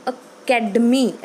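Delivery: "academy" with stress on the second syllable, CAD. Shown as a demonstration. Teacher demonstrates syllable stress, "academy" stressed on second syllable CAD. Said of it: "stress on the second syllable".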